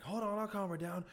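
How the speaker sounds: high put-on helper voice; volunteer calmer. Passenger stepping in to calm a panicking woman, high mock assurance. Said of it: "they're like".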